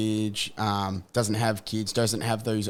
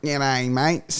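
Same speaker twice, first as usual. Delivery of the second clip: put-on strong, full, nasal Australian accent, higher pitched; 4 semitones higher, 3 dB louder than usual. Joking about how own recorded voice sounds: full nasal aussie accent. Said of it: "full nasal Aussie".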